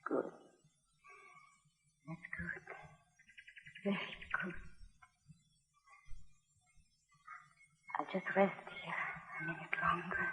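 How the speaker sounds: very soft, broken, weakening words; slipping away between each word; dying, fading. Acted. Dying woman holding his hand.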